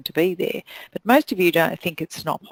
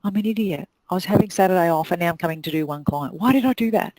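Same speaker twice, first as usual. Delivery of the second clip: self-reproach; faster than usual. Retold or imitated. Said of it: "you think".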